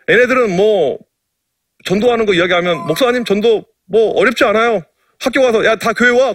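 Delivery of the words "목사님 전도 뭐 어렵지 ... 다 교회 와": imitating a brash teen, higher; a brash kid bragging to the pastor, higher and cocky; cocky delinquent kid. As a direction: toss it off like a swaggering middle schooler. Kid's cocky advice quoted.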